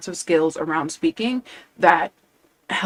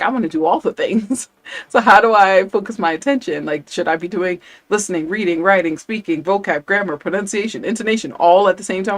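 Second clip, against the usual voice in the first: eager, overwhelmed student; 3 semitones higher, 3 dB louder than usual. Retold or imitated. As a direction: imitate a student rattling off a long list of questions.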